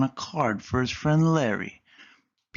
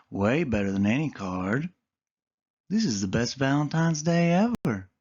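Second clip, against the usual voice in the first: reassuring Callie; 3 semitones higher than usual. Acted. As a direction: comfort a worried friend.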